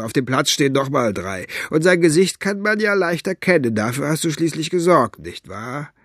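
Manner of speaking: mocking guard who has the upper hand; lightly voiced gloating henchman. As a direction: needle the prisoner smugly. Figure of Flachnase taunts prisoner.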